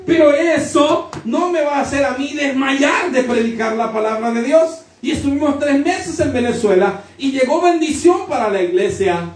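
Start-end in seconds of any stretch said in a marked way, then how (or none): 0.1-4.8 preaching cry. Real, not acted. Preacher declares he won't give up.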